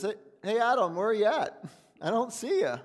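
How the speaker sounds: God voiced calling out high for the hiding Adam. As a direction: call out for Adam, searching.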